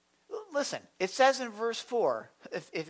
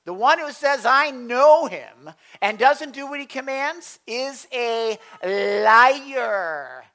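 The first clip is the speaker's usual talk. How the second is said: much louder and higher, urgent warning; loud preaching; 4 semitones higher, 10 dB louder, slower than usual. Acted. Preacher voicing God warning the kids, loud. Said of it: "he's saying".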